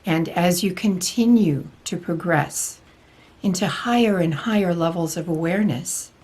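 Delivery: lightly voiced spiritual teacher, measured and deliberate; channelled Archangel Michael. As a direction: deliver a solemn channelled message with long pauses. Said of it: "Archangel Michael especially has been interested in coming through".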